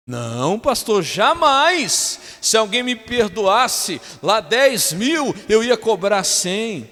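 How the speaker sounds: high, loud, slow protest; indignant believer. Acted. Churchgoer protesting to the pastor, indignantly. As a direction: act a self-righteous churchgoer swearing innocence. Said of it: "Nossa, pastor".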